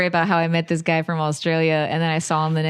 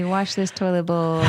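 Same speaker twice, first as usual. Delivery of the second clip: mock enthusiasm. Mock cheer about chores.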